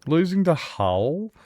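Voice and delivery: rising disbelief at the football score; groaning at the team, pitch climbing to a high peak; exasperated fan scolding his own club; mock exasperation. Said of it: "and I was like".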